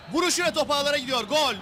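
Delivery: fast, rising shout as the ball goes in; excited goal call. Real, not acted. Goal scored, live commentary.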